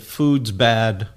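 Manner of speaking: monk finally uses his two words, low and flat-out blunt; grumbling monk. Acted. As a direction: drop the voice and deadpan "Food's bad.".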